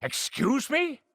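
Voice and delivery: high, slow outraged question; can't believe what she heard; indignant disbelief. Acted. Reacting to the Grandmaster's denial, high indignant disbelief.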